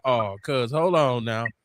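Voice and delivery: defensive hold on. Retold or imitated. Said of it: "And I'm like".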